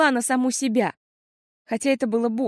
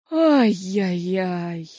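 dismayed father; much slower than usual. A narrator's reading. Father hears the story.

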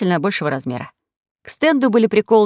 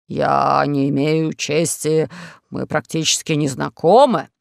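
out of breath; 4 semitones lower, slower than usual. Acted. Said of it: "задыхаясь".

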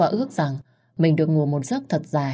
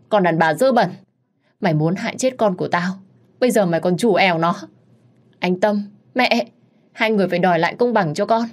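accusing wail; 3 semitones higher, 3 dB louder than usual. Acted. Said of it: "Nó òa lên khóc".

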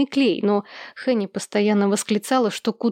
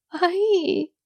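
high, drawn-out "ai" wail; wailing cry; 9 semitones higher than usual. A narrator's reading. Wife hiding her face in her robe, wailing. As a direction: hold a high narrated bawl. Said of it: "заревела Хенни".

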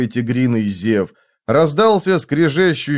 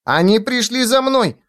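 put-on high, excited little-child voice; delighted child; 9 semitones higher than usual. A narrator's reading. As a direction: call out to rescuers as a relieved child. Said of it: "лицо Зигурда просветлело".

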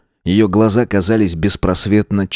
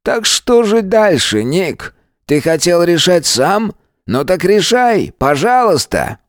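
higher, slow sneering challenge; sneering taunt; 10 semitones higher, slower than usual. A narrator's reading. Georg goads Nick with slow sneering challenge. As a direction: dare him to act, slowly.

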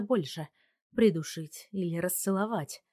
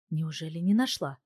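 ordinary delivery

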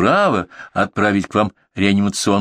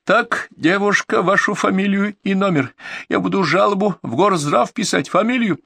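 angry demand; 11 semitones higher than usual. A narrator's reading. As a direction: demand her name in a rage. Furious caller demands name.

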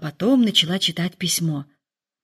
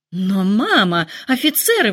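excited exclaim. Acted. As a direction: burst out like a giddy girl. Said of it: "воскликнула Лидия".

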